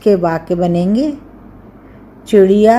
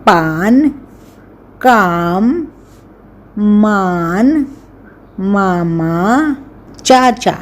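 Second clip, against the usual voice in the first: slow teaching words; slower than usual. Shown as a demonstration. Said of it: "आ की मात्रा के शब्द".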